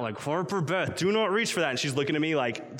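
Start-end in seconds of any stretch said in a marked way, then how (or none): 0.2-1.7 a hint of a stern father; stern dad voice. Father warns his toddler daughter not to reach, stern dad voice. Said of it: "my dad voice is kinda coming out".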